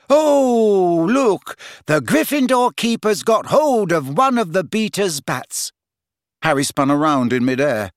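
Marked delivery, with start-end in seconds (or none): 0.1-5.7 put-on high, bright commentator girl; excited Luna voice. A narrator's reading. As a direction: call it out eagerly.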